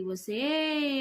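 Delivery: put-on a ghostly old woman lunging in fury; angry shout. A narrator's reading. Old woman lunging at Saroja, furious cry. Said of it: "Saroja మీదకు కోపంగా, కసిగా దూకింది".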